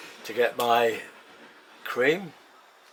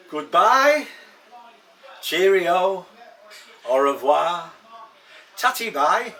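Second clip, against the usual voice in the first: higher, singsong goodbyes, each set apart; playful farewells; 5 semitones higher, slower than usual. Pretend. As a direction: reel off jaunty sign-offs one by one. Singsong string of farewells at sign-off.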